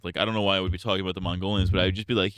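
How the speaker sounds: normal talking voice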